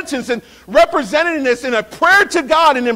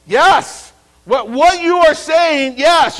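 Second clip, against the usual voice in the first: louder fervent cry of agreement; crying out yes; 4 semitones higher, 3 dB louder, slower than usual. Retold or imitated. The people answering Ezra, fervent cry. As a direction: call out yes like a crowd. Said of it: "they cried out with a loud voice".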